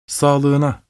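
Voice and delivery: lightly voiced gentle mother; mother's gentle voice. A narrator's reading. Dead mother toasts the sick child in a dream, gently. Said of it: "annemizin sağlığındaki yumuşak sesiydi".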